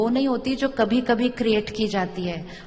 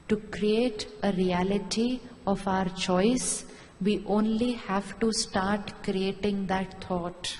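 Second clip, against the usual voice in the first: slow emphatic maxim; 3 semitones lower, 5 dB quieter, much slower than usual. Acted. Closing maxim over music.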